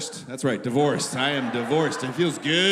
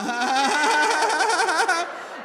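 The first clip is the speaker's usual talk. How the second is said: high, long stuttering stoner giggle; pothead laugh; 10 semitones higher, 4 dB louder than usual. Acted. High smoker cracking up, long stoner giggle. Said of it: "you get that pothead voice".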